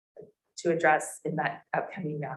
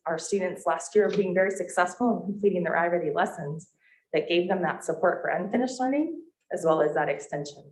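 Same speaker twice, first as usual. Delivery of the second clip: muffled speech behind a mask; talking through a face mask, slightly muffled. Real, not acted. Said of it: "It's really hard to talk with a mask on".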